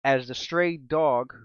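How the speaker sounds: slow, ominous storytelling voice; dramatic narration. Acted. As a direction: paint the scene with suspense.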